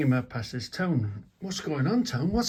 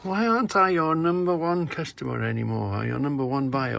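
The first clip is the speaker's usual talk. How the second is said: loud, high calling out to his sister; yelled jokey complaint, pitch up; mock shout; 5 semitones higher, 5 dB louder than usual. Brother calling to his sister about lost custom, loud and high. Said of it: "and she says".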